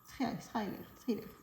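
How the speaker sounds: fumbling "thrillers" in a French accent, softly; French-accented stabs at "thrillers", "sreevair, sry-lair, streevair"; self-mocked French accent. Real, not acted. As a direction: try "thrillers" several ways, all French-accented. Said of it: "avec mon super accent".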